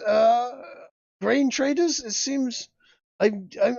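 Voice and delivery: stammering official, still rattled by the attack; flustered governor. Acted. GM voices governor.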